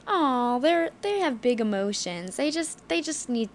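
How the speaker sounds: mock condescension. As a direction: imitate someone belittling women's feelings as silly. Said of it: "made out to be some silly little".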